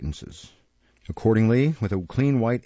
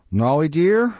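gentle murmur; 6 semitones higher, 5 dB louder, slower than usual. Acted. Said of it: "murmured Nancy in a gentle voice".

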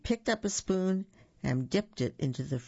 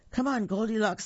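high-pitched urgent little pig; squeaking pig; 6 semitones higher than usual. A narrator's reading. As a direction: squeak it as a hurrying piglet. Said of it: "squeaked the third little pig".

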